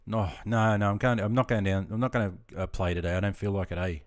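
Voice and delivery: casual Queensland speech with a tagged-on "eh". Shown as a demonstration. Streamer showing viewers a Queensland saying, casual Queensland accent. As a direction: round off the refusal Queensland-style with an eh. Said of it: "like that A you said at the end".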